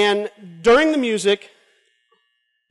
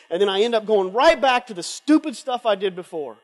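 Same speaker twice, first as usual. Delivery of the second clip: despairing sinner. Retold or imitated. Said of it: "down on his face, saying".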